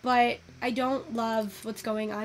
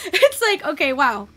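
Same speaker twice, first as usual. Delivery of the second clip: flustered laugh; 4 semitones higher, 10 dB louder than usual. Real, not acted. Flattered by viewers' praise.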